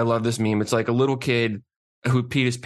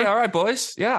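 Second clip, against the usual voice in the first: much higher, happy-go-lucky French-Canadian voice; cheery Fleury impression; 10 semitones higher than usual. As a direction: play Fleury as a giddy kid. S1 imitates Fleury, laughing.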